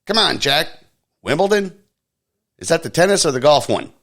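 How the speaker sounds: mock Biden, high and befuddled; Biden impression. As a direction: play a doddering president lost mid-thought. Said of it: "President Biden said".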